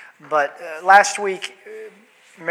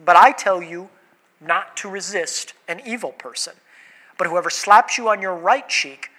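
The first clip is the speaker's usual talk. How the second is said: scripture reading. Acted. Reads scripture passage aloud.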